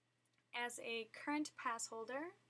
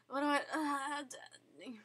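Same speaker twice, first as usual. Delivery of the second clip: put-on shy kid voice; 4 semitones higher, 6 dB louder, slower than usual. Acting out shy overwhelmed child.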